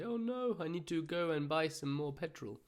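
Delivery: high-pitched, worried "oh no"; mock worry. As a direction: act out a sudden worry, pitch jumping up then easing. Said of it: "you start to worry".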